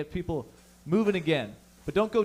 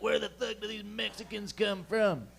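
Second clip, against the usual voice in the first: mock Southern redneck; 5 semitones higher, 4 dB quieter than usual. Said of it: "they'll be like".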